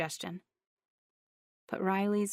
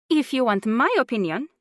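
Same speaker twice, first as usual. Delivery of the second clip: put-on bossy older aunt, louder; older woman voice; 6 semitones higher, 7 dB louder than usual. A narrator's reading. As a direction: lay down her opinion firmly. Juanita voiced.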